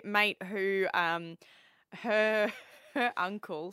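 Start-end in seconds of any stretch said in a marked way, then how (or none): 2.0-3.7 real giggle breaking into the words; trying not to laugh. Real, not acted. Co-host telling friend's uncle's death story, trying not to laugh. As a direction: start the sentence, then crack up and slow down. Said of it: "sorry, I shouldn't laugh".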